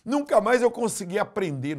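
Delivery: put-on high, loud child's complaint; boy crying out in church. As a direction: accuse your father in tears. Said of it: "o menino gritou chorando".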